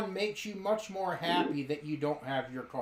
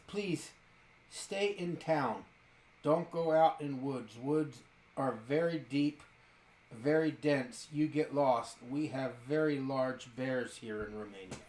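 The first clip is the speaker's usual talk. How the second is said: put-on thick Romanian accent; 3 semitones lower than usual. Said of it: "in a very thick Romanian accent".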